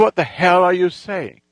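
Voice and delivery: imitating an affronted tough guy; mildly acted indignant demand; indignant challenge. Voicing the confrontational gang leader.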